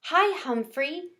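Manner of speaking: soft, slow little voice; a gentle, unhurried hello. Acted. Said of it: "she replied in her soft voice".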